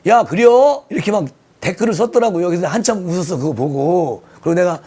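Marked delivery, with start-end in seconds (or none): 0.1-0.8 imitated Chungcheong accent, pitched up; Chungcheong dialect. Reading a fan's teasing comment, lightly imitated Chungcheong dialect. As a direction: lightly mimic a Chungcheong local. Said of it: "충청도 말을 비유하면서".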